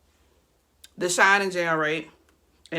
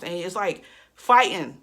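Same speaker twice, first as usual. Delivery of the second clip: breathless, winded talk; out of breath; 3 dB louder than usual. Real, not acted. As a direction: talk while short of breath. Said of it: "I'm out of breath as we speak".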